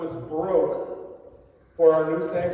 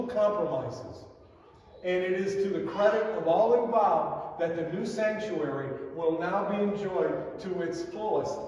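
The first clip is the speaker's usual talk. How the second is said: formal letter reading. Acted. Pastor reads the chairman's thank-you to the congregation, formal reading. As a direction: read it out like a dignified thank-you note.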